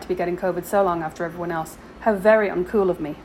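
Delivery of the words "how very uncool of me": dry sarcastic self-mockery. Shown as a demonstration. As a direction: say it with deadpan sarcasm.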